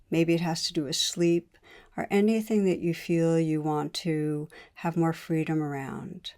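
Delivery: unhurried meditation guide, pausing between phrases; guided meditation. Real, not acted. Teacher leading listeners to notice wanting in the body, guided meditation. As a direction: guide listeners inward calmly, leaving space between phrases.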